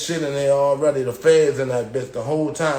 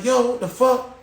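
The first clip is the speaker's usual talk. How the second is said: much higher pitched disbelief; retold shocked outburst; 10 semitones higher than usual. Inmate to guards about his cell, high incredulous yell. Cell still not cracking.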